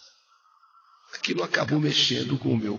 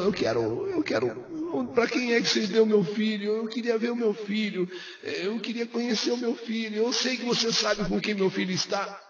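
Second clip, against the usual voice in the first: softer, half-crying pleading; imitated tearful plea; 6 semitones higher, 4 dB quieter than usual. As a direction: plead softly as if near tears. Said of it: "meio chorando". (súplica chorosa, imitada de leve)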